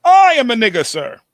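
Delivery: high, loud Jerk voice; hammed-up naive Steve Martin voice; Steve Martin impression. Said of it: "You sound like Steve Martin in The Jerk".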